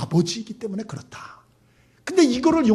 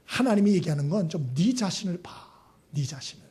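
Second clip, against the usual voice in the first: ordinary talk, nothing marked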